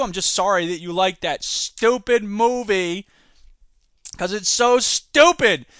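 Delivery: slow, drawn-out scorn; scornful. Real, not acted. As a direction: drag it out with contempt. Scornful ending on the movie.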